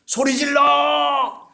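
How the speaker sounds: slow, loud drawn-out shout; a real, stretched-out shout with a laugh in it. Real, not acted. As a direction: lead the congregation in a big yell. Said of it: "우리 한번 같이 소리 질러 봅시다".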